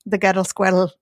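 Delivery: playful mock Scottish vowels; light fake Scottish accent; imitated Scottish accent. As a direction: try out a Scottish burr. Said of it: "it's a hard accent".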